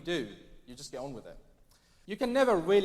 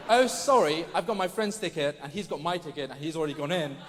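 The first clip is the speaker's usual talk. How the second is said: over-apologetic Brit; 4 dB louder than usual. Retold or imitated. Mocking over-apologetic Brits.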